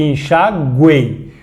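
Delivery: slow "enxaguei", syllable by syllable; "enxaguei" drawn out as en-sha-GWEI; enxaguei, U sounded. Shown as a demonstration. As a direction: say "enxaguei" broken up, ending in a clear "guei" with U as W. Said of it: "o que sai da minha boca é isso aqui".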